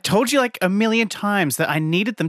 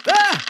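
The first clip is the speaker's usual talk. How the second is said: high startled cry; startled yelp; 4 dB louder than usual. Acted. Host yelping as straws are thrown at him.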